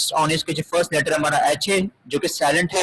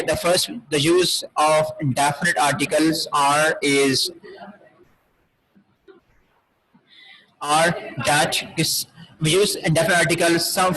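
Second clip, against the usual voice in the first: slow dictation read; much slower than usual. Shown as a demonstration. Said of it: "teacher reads English rule slowly".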